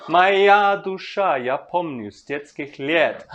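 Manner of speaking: slow, measured reading that leans on each stressed beat; slow Russian verse recital; slow poetry recitation. Shown as a demonstration. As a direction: read the verse slowly, marking the rhythm.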